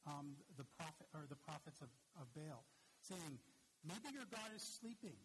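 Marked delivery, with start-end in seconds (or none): 3.8-5.2 higher-pitched mock taunt; retold prophet's taunt, pitched up. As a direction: needle them in a raised pitch, imitating a taunting prophet. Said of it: "I remember Elijah taunting".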